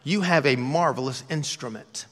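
measured expert compliment, no gush; professional singer's verdict. Retold or imitated. Preacher imagining a pop star praising a singer, measured expert tone. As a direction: say it like a pro judging a voice. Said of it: "She would say something like".

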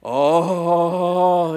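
loud laughing oh; mock gasp of recognition; man in church spotting pastor, laughing oh; recognizing gasp. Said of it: "look up at me and go".

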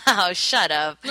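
laughing it off, drawn out. Real, not acted. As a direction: protest through a laugh. Teased, laughs while protesting.

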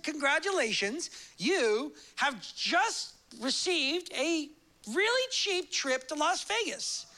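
a lightly hammed travel agent; mock sales pitch. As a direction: sell the cheap trip like a telemarketer. Travel agency sales call.

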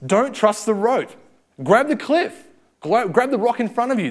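high, loud, urgent mock yell; inner scream. Fear inside the climber screams, loud and high. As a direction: yell it like your instincts panicking. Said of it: "it screams".

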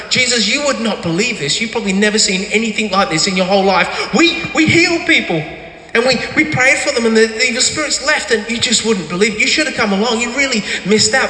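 eager, breathless retelling to Jesus; mock excited report; excited disciples. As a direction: burst out with excitement. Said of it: "They would have been so excited".

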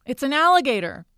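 high, mock scream of alarm. A narrator's reading. Terry spots what has her friend stuck, screaming in alarm. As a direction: cry out a warning, voice jumping high. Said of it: "until Terry screams".

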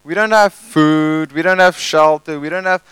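a touch of whiny complaining; mock moaning Israelites. Israelites moaning at Moses, light whiny complaint. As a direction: lightly play the grumbling crowd. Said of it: "they're moaning all the way".

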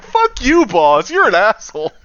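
high-pitched retold cursing, dropping at the end; mock outrage. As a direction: hurl it in exasperation, half laughing.

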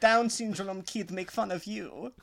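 a light mock Russian accent. Joking about the kid who loves Soviet Russia memes, Russian accent. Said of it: "in Soviet Russia memes".

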